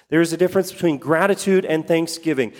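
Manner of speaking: fast run-through, stress on "gratitude"; quick restatement. Shown as a demonstration. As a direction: toss it off quickly the second time.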